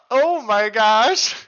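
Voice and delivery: hiccuping between words; talking through hiccups. Real, not acted. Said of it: "These hiccups are messing with me".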